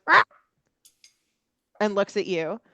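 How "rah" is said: bird squawk. Acted. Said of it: "the bird goes".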